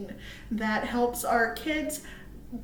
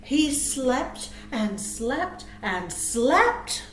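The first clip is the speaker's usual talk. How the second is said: very slow, drowsy and drawn-out; sleepy slow narration; much slower than usual. Acted. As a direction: stretch each slept like a lullaby.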